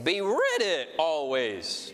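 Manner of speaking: ready pressed, slow and falling; stress on ready. Shown as a demonstration. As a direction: slowly hit the word ready. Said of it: "emphasize each word every time".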